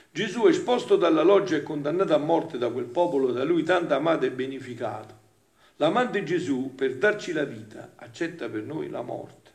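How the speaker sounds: emphatic reading aloud, easing off; impassioned devotional reading. Acted. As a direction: declaim it, then settle toward the end. Reads devotional text aloud.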